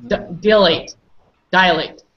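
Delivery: dilate as one quick DIE-late; crisp corrective dilate for a student; model pronunciation. Shown as a demonstration. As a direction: say dilate joined up, falling at the end. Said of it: "you have to say it fast".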